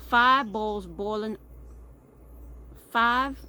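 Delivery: loud, slow "Five", testing each word; careful tongue-twister attempt. Shown as a demonstration. Texan testing a phrase Southerners can't say, slow and loud. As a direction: try "Five bowls boiling" loudly and slowly, breaking off. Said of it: "little phrase that Southerners can't say".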